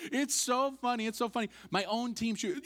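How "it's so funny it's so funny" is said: high, loud mock amusement; hammed-up amused jeer; laughing teammates. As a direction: imitate teammates finding it hilarious. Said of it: "And they're all laughing".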